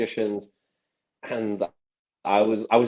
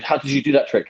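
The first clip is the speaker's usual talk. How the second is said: higher, mildly astonished quote; imitated freak-out; 5 semitones higher, 4 dB louder than usual. Magician retelling the coin trick, mock freak-out. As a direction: mimic a baffled shop worker demanding the method. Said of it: "he's freaking out".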